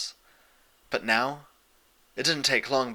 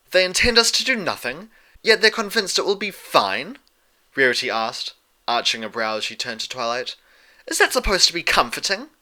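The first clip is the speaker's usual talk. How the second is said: much higher, louder incredulous questions; skeptical lady; 6 semitones higher, 4 dB louder than usual. A narrator's reading. Rarity doubting the princesses' plan to Twilight, incredulous and higher. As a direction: arch a brow with your voice.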